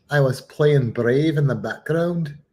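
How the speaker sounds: lightly put-on Scottish accent; mock Scottish brogue. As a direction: echo it as a playful Scot. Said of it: "I prefer the Scottish one".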